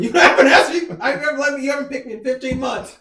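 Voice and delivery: imitating a heckling reporter's yell; retold yelling. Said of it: "the guy is just yelling".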